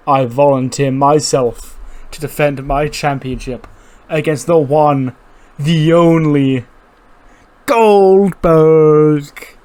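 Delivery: brash mock wrestling promo, peaking on the name; hyped Big E promo. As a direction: call out the legend like a pumped-up wrestler cutting a promo. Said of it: "And he goes".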